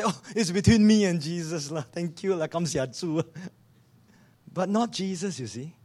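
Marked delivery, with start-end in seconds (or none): 0.0-3.2 cheerful Singaporean English with lah; pleased, grateful Singlish voice; happy Singlish. Acted. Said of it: "would have been very happy and say".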